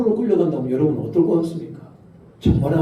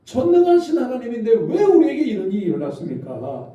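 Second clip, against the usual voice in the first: higher, imploring prayer of the exiles; pleading complaint to God; 5 semitones higher than usual. Retold or imitated. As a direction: plead with God as the weary captives. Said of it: "하나님께 따졌습니다".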